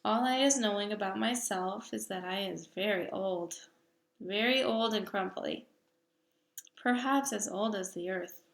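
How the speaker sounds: a hint of a booming giant, firm and sure; lightly voiced big friendly giant. Giant lectures the little girl about giants, lightly voiced.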